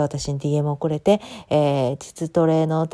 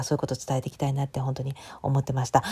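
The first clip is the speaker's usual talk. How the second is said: whisper; 3 semitones lower, 6 dB quieter than usual. Real, not acted. Sincere closing thought.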